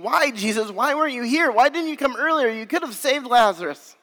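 lightly voiced sisters pleading with Jesus; mild retold anguish. Grieving sisters question Jesus about their dead brother, mildly anguished. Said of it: "they're crying out in, in sorrow and pain".

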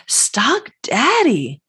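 slow, breathy secret whisper of Stock Daddy; playful whisper. Pretend. Host teasing listeners with a slow whispered Stock Daddy. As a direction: lean in and whisper it like a fun secret.

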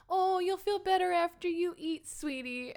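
high, cooing grandmother voice; sweetly soothing. Retold or imitated. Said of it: "all sweetly and is like".

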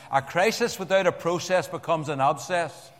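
light Northern Irish Ulster lilt on the saying; Ulster accent. Shown as a demonstration. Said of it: "I'll do the Ulster accent".

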